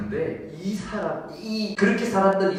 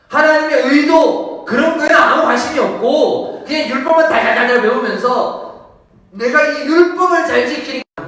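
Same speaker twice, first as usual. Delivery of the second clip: high, loud, impassioned sermon; thundering preacher, stretching key phrases; full-force preaching; 14 semitones higher, 13 dB louder than usual. Real, not acted. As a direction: cry it out from the pulpit.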